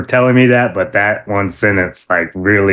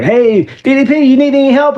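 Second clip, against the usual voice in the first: much higher, loud call; 3 dB louder than usual. Retold or imitated. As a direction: shout across the yard. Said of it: "we was like".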